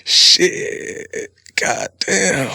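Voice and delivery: breathy hushed swear; whispered shit; whispered curse. Shown as a demonstration. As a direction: hiss it under your breath. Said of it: "it's a lot different if somebody says".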